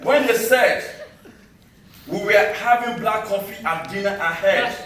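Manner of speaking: measured spoken-word delivery with deliberate pauses; poem recital. Acted. Poet to summit crowd recalling the long trek, declaimed poem recital. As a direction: declaim it line by line to an audience.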